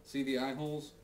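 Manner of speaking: muffled inside a cardboard box; talking with a box on your head; box over head. Real, not acted. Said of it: "Why is this box on my head?".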